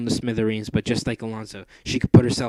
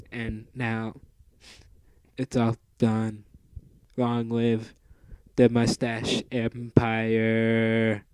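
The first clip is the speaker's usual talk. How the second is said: dying robot; slower than usual. Acted. Dying robot's last words.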